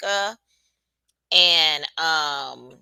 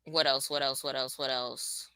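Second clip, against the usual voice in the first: each what else softer and lower until gone; fading repetition; 6 semitones lower, 10 dB quieter than usual. Real, not acted. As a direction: let it trail off into nothing.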